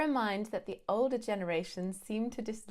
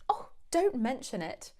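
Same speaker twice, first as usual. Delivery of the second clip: self-deprecating; 3 semitones higher than usual. Shown as a demonstration. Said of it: "very British. It's quite self-deprecating".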